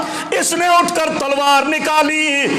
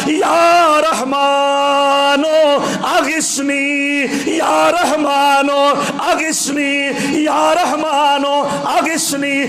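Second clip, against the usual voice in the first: drawn-out slow crying out, easing each time; pleading cry to God; 2 semitones higher, much slower than usual. Retold or imitated. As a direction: stretch each plea to heaven very slowly, calling out then fading. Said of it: "آسمانوں کی طرف نگاہ کی اور آواز". (آسمان کی طرف لمبی، دھیمی ہوتی فریاد)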